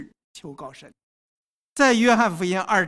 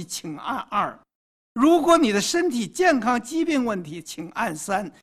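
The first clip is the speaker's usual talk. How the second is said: automated phone menu voice; robocall; 3 semitones higher than usual. Acted. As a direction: list the options like a recorded menu. Answering machine menu options. (电话语音菜单的腔调)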